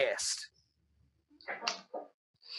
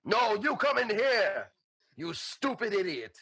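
slow, raised barbarian taunt; Boom Boom taunting; 5 semitones higher than usual. Acted. The barbarian refusing to enter, taunting slowly. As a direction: throw the insult back through the door. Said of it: "May I respond?".

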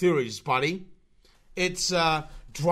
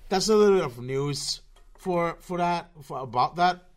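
slurring; 3 dB louder than usual. Real, not acted. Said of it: "I don't know why I'm fucking slurring my voice".

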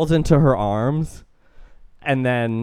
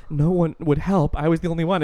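mock self-dramatizing; 4 semitones higher than usual. Imitating her self-dramatizing flashback story.

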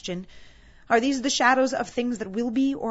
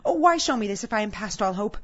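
loud, high, anguished begging; desperate pleading; 7 semitones higher, 9 dB louder than usual. Acted. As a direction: cry out for mercy in mounting terror, then implore. Scrooge begs at his grave.

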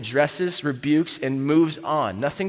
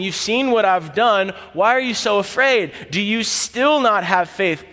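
kind teacher asking, not shaming; Jesus gently questioning his disciples; gentle question; 4 semitones higher than usual. Retold or imitated. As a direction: speak it like a patient friend beside you. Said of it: "He's sitting and speaking with you on the boat".

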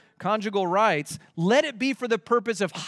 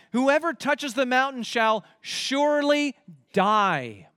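"surely die" drawn out slowly and higher; emphatic; 4 semitones higher, slower than usual. Shown as a demonstration. Preacher translating the Hebrew death warning, emphatic and slow. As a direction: land "surely" and "die" as separate, weighty words. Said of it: "the Hebrew actually here is emphatic".

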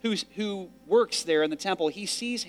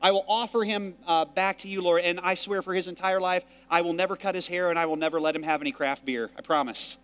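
Hannah's vow, paraphrased; 3 semitones higher than usual. Retold or imitated. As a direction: bargain with God earnestly, a bit playful. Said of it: "She's saying".

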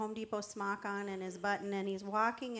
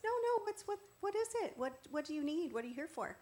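insistent helper; 5 semitones higher, 5 dB quieter than usual. Acted. Insistent clerk voiced in a story.

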